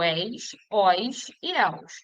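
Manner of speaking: "eis, ois e els" slowly, each with an open vowel: éis, óis, éus; open diphthongs. Shown as a demonstration. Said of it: "terminadas nos ditongos abertos". ("eis, ois e els" como ditongos abertos, devagar: éis, óis, éus)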